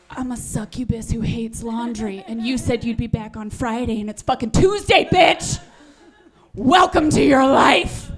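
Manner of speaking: building defiant yell. Retold or imitated. Wife defiant, caught in swimsuit.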